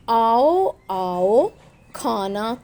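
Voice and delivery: slow, drawn-out coaxing call; lightly acted hunter luring birds down; calling to pigeons. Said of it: "कबूतर को आवाज़ें दे रहा है". (कबूतरों को पुकारते हुए)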